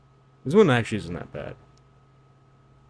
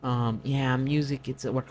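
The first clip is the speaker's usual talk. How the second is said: higher, offhand voice of a defensive listener; mock defensive fan; 4 semitones higher, slower than usual. Defensive fan dismissing the critique, higher and casual. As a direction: shrug it off like a fan. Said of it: "someone who is like".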